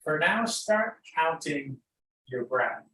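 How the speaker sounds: unhurried, lead them gently into noticing breath and body; guided meditation. Real, not acted.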